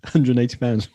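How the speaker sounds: laughing punchline delivery; joke punchline. Shown as a demonstration. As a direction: land it loud and high with a laugh. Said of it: "What a punchline".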